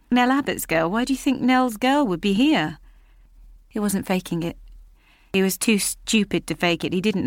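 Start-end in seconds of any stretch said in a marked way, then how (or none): 0.1-2.8 lightly voiced garage man, higher and puzzled; a hint of a crude local man, baffled; surprised Robbie. Robbie at his garage, puzzled by Julia's question.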